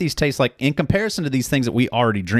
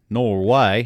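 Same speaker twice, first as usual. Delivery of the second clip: put-on Australian accent. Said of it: "That's how you say no way in Australia".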